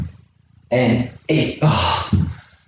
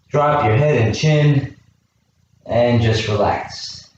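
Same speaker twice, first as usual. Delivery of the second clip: slow soothing coach voice; slow calming; slower than usual. Real, not acted. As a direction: ease them down gently. Stretch, telling class to relax.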